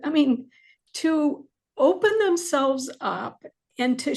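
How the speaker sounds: heartfelt gratitude, fighting to keep composure; choked up. Real, not acted. Author thanking near-death experiencers for opening up, choked up. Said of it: "I'm gonna get choked up".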